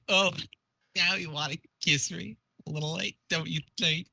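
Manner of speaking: lightly voiced dying troll; mildly acted last words, broken by pauses; Vriska dying. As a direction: play dying with a touch of reproach. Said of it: "I need to do a dying Vriska voice".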